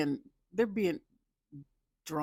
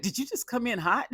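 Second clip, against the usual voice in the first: high, loud goofy slurred quote; mock drunk guy; 9 semitones higher, 5 dB louder than usual. Drunk Joe asking Madison, high loud goofy quote. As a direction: ask it bleary and confused. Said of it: "he was like".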